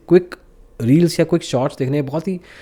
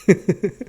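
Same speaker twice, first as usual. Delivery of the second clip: short laugh; 5 semitones higher than usual. Real, not acted. Host laughs after the joke.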